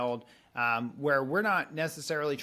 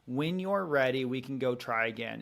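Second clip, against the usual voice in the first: calm boundary. Retold or imitated. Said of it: "a boundary of".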